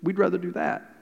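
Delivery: mildly hammed-up whining complaint; sulky complaining. Preacher mimics Israelites grumbling in the wilderness, mock sulky complaint. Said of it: "they're back here sulking".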